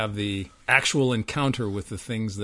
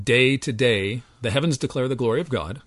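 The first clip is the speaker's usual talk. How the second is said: scripture recitation; 4 dB louder than usual. Real, not acted. Quoting Psalm nineteen aloud.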